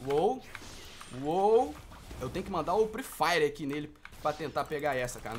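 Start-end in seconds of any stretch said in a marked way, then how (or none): none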